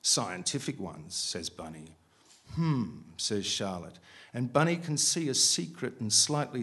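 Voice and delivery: measured, projected reading aloud; story narration. A narrator's reading. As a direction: read the prose out deliberately to a room.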